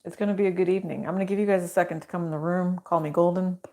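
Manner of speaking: talking while crunching a mint. Real, not acted. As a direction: mint crunching between words. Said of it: "I forgot I had a mint in my mouth".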